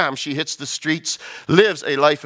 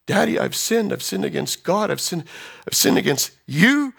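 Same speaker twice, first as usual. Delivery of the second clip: repentant daughter begging, building higher; acted pleading confession; 5 semitones higher than usual. Daughter confesses at father's feet.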